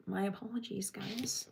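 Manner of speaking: calm yourself and apologize under your breath; sheepish quiet sorry to viewers; hushed apology. Real, not acted. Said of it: "Sorry, that was really loud".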